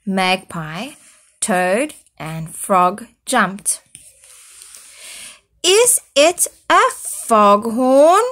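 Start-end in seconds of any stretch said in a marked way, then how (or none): 5.6-8.2 high, loud startled question; crying out. Acted. Foal crying out at the goat's snoring, high and loud. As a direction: cry it out in alarm. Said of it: "cried Foal".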